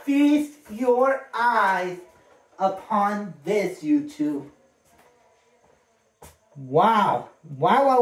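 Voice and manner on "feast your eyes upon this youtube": slow, drawn-out showman reveal. Pretend. Unboxing gifts for viewers, slow showman reveal. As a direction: drag it out like a ringmaster unveiling a prize. Showing off a gift again.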